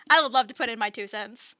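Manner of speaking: put-on slight southern accent. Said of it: "trying not to go into a southern accent".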